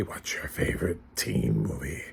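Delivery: hushed, soft, bad horror killer voice. A movie video host asks viewers a question, in a bad Ghostface voice. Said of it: "That's my ghost face voice".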